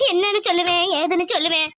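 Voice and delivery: low, hammed-up lament; put-on crying. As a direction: moan helplessly through fake tears. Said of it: "அழுவாம". (போலி அழுகையோடு புலம்பல்)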